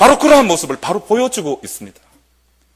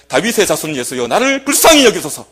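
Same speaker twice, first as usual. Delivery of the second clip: crying out; 3 dB louder than usual. Retold or imitated. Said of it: "더욱더 크게 소리 질러 이르되".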